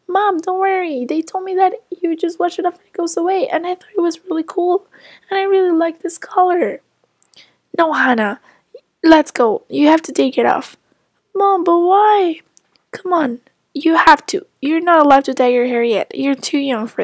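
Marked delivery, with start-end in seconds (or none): 0.1-6.8 pleading daughter. Acted. Child defends dyed hair. 11.3-12.4 put-on whiny child. Child whines at mother.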